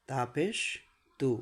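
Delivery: তু set apart with a clear "oo"; correct u vowel. Shown as a demonstration. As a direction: pause before a rounded "oo" in তু. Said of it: "কী হবে?".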